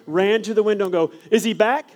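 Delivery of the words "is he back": high, loud eager calling; loud hammed-up eager shout; mock excitement. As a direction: play it up like He's arriving. Teacher runs to window.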